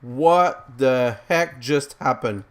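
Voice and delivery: slow, loud, bewildered; baffled and loud after a disaster; stunned disbelief. Real, not acted. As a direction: drag it out in real shock.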